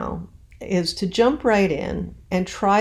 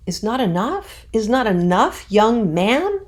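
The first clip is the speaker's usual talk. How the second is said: put-on rising, louder pleading "Is not enough, young man?"; natural, questioning; 4 semitones higher, 5 dB louder than usual. Shown as a demonstration. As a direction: say it like a real plea. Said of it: "saying it in a more natural way".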